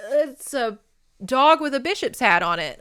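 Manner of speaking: lightly voiced confident old scholar; mock medieval certainty. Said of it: "they were like".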